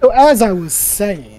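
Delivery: very posh voice. Acted. Gak resuming his explanation, very posh voice. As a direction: pick up the lecture in a posh accent. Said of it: "in a very posh voice".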